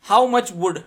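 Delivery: how much wood called out loud; loud tongue twister start. Shown as a demonstration. Teacher calls out the woodchuck line to students, loud. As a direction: announce it boldly to the class. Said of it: "Speak them repeatedly".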